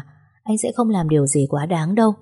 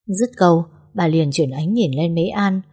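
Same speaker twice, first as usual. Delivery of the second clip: plain reading voice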